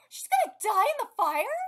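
gasp, then high loud question; loud, incredulous question after a gasp; high, alarmed reaction; shocked disbelief. Real, not acted. Shocked again by the story.

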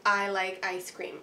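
"I like ice cream" said slowly in even beats; rhythm example. Shown as a demonstration. Teacher modeling four-beat rhythm words for kids, slow. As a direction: space each word of "I like ice cream" evenly.

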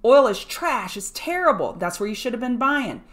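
mock the bears who called it trash; mocking crowd voice. Ridiculing past oil bears, loud sneer. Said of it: "down here".

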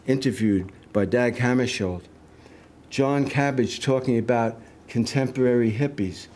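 measured list-like recital, each line set apart; poem reading. Acted. Poet reading a tribute to John Cabbage, steady recital. Reads poem aloud to audience.

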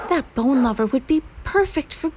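excited high whisper. Acted. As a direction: whisper it like a delighted secret. Mamicula confides about the dog.

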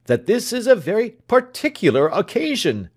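high, loud exasperated scolding; doctor berating his man before guests. Acted. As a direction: scold the servant for his delay.

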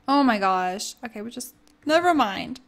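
ordinary delivery

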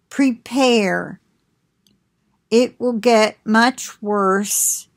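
measured, solemn prophetic delivery; prophetic message reading. Acted. Reading God's message to the listeners, solemn and measured. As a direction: pronounce the warning like an oracle.

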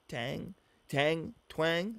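"Tang?" then "Twang?" as questions, testing the word; trying out twang. Shown as a demonstration. Checking how to pronounce the word twang, rising questions. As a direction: sound out "Twang?" with a rising try. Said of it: "little twang in her accent".

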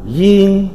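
"yin" pronounced as in Mandarin; Mandarin reading. Shown as a demonstration. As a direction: say "yin" as a Chinese syllable. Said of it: "Phiên âm tiếng Trung đọc là".

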